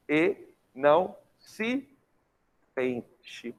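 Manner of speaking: slow, spaced syllables dropping away at the end; poetic scansion. Shown as a demonstration. Teacher finishing the poetic count after the comma, slow and measured. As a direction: count out "E não se sente" slowly, fading on the unstressed ending. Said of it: "Em sílaba poética, olha como é que você vai fazer".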